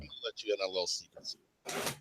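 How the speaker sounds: muffled, low, like a 1940s phone line; old telephone filter. Acted. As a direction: talk through an old telephone. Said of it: "are you talking like you're in underwater? You're very low".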